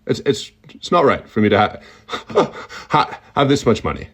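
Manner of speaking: stuttering halting Elon Musk voice, lightly shifted; a hint of Elon, stammering and glitching; lightly voiced Elon, broken by stutters and pauses; Elon Musk impression. Shown as a demonstration. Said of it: "how to do Elon Musk".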